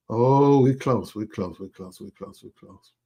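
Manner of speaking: fading to an excited whisper; breathless chant down to a whisper; shrieking jackpot winner. Real, not acted. Count nears a hundred.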